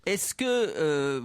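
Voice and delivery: laughing. Real, not acted. Laughing while asking.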